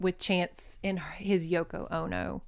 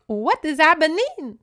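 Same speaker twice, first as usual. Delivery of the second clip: pitched-up bewildered cry; confused gasp; 7 semitones higher, 5 dB louder than usual. Retold or imitated. Heroine in the carriage, bewildered and shrill. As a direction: sound baffled and lost. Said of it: "And she's like".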